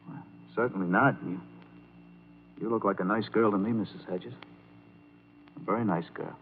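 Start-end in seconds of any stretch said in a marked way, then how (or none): 2.6-6.3 softer, lower, hesitant kindness; gentle reassurance. Acted. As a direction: reassure her softly, a little awkwardly. Reassuring a distressed woman.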